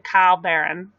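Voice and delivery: "Kyle Barron" for Carl Barron, in an Australian accent. Shown as a demonstration. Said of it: "when I said Kyle Barron".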